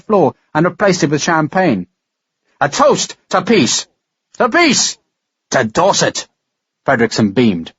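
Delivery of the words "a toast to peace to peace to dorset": slow, then a high ringing call to peace; joyful toast. Acted. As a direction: raise the glass and cry it out. Fredrickson raising a celebratory toast.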